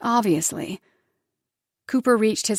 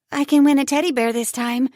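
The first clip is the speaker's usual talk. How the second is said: put-on higher child voice full of hope; hopeful little girl; 6 semitones higher, 5 dB louder than usual. Daughter hoping for arcade, high hopeful voice. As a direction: say it like a hopeful kid. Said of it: "Eva said hopefully".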